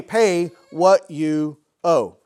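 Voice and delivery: very slow, loud, in a changed voice; menacing demand. Acted. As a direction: spit each word out like a threat while choking him. Slave choking fellow slave, demanding.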